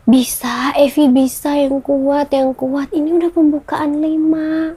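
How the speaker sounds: a family member choking up while cheering her on; tearful encouragement. Retold or imitated. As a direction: urge her on through tears. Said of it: "Ini yang saya udah nangis-nangis".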